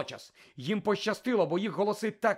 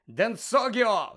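high, loud, stretched incantation; yelled spell; 6 semitones higher, 5 dB louder, much slower than usual. A narrator's reading. Malfoy firing back at Harry, yelling. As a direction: yell the curse, drawing it out. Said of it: "зарепетував Мелфой".

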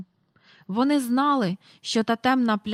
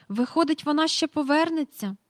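put-on higher, childlike wondering; Michael's hopeful question; 7 semitones higher than usual. A narrator's reading. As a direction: ask hoping she returns. (Майкл з надією питає)

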